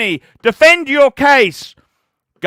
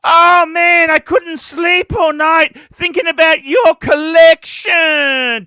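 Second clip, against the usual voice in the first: butter up a rich donor, hammed-up; mock gushing; 5 semitones higher than usual. Streamer mocking Marco fawning over donors, hammed-up gush. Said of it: "tell them how legendary".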